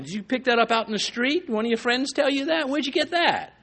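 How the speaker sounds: imitating scolding mom. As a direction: play your mother catching you repeating street talk. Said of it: "My mom used to say to me often".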